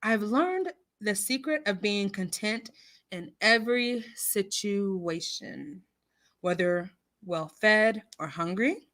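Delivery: measured, deliberate Bible reading; scripture reading. Real, not acted. Host reading scripture to her live audience, measured and deliberate. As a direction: read it slowly with weighty pauses.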